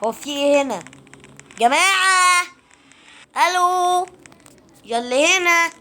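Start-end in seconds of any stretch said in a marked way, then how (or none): 1.6-5.7 drawn-out searching calls; calling out. Real, not acted. Player calling whoever might be here, calling out. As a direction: call into an empty place for anyone.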